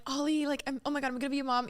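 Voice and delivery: soft fast thinking aloud; quiet inner voice. Retold or imitated. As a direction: murmur it to yourself. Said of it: "I'm like".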